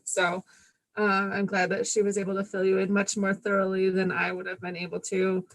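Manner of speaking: talking through a face mask; words muffled behind a mask. Real, not acted. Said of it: "can you guys hear me through the mask".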